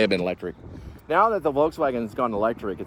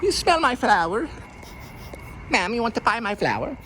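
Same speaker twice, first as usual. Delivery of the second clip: higher, hammed-up French street vendor; cartoon Frenchman peddling flowers, pitched up high; mock French accent; 10 semitones higher, 6 dB quieter than usual. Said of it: "As in, "Marcel Marceau".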